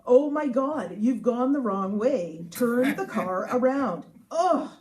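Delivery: mock-dismayed navigator, loud and slow, ending in a groan; exasperated GPS guy. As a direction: play an exasperated GPS ordering a U-turn. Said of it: "and he would say".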